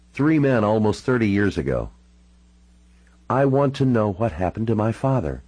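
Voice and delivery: The speaker's character voice. Acted.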